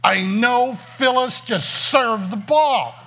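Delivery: slow, loud and high stand-in for a curse; a loud, slow stand-in for a curse word; mock-pious exclamation. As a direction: say it like a swear word, slowly. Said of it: "in my Christian vernacular".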